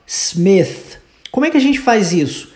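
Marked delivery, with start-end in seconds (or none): 0.0-1.0 Smith ending with the tongue between the teeth, unvoiced TH. Shown as a demonstration. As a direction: stress the unvoiced TH at the end of Smith. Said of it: "Olha o T H aí".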